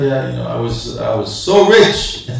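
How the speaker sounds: hamming up a smug rich man's excuse; excuse-making sinner. Acted. Preacher mimics a rich man's excuse to the congregation, mock smug. Mocking excuse on Judgment Day.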